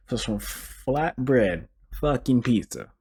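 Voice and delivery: slow, heated and fed up; slow angry emphasis on fucking; getting angry. Real, not acted. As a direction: drag each word out in real annoyance. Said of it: "I'm getting angry".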